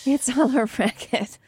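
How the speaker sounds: a hushed, breathy echo of the line; whispered echo. Acted. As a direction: whisper it back like a shared secret. Echoes the whisper back.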